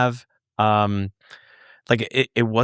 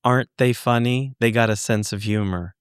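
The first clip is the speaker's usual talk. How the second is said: super calm. Retold or imitated. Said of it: "looks at me super calm and says".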